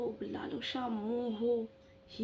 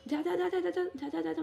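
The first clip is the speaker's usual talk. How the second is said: higher mock shout of go away; mock harsh shooing; imitating shooing away; 5 semitones higher than usual. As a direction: chase someone off like a stray dog. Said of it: "মানে ঝ্যাঁটা লাথি দিয়ে আমাকে তাড়াচ্ছে".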